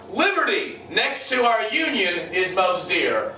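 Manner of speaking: slow, lightly acted toast; Calhoun. Calhoun answers Jackson's toast, measured and slow. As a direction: give a measured, deliberate toast in reply. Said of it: "Calhoun says".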